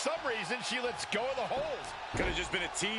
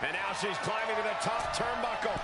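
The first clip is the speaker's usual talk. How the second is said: wrestling commentator; 3 semitones higher than usual. Real, not acted. Live play-by-play call.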